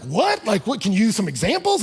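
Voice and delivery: retold baffled what, rising; surprised confusion. Pastor retelling being caught off guard, baffled and rising. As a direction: ask for examples in mild disbelief. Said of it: "I was like".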